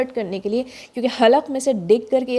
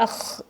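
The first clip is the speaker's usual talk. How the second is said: اخ hit too hard with a jolt; overdone bounced ukh; forced kha; 6 dB quieter than usual. Shown as a demonstration. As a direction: show the wrong, stressed اخ. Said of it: "اتنی زور سے".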